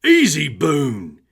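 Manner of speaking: loud, high call to the dog. Acted. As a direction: settle the dog down loudly. Dog jumps on kneeling man.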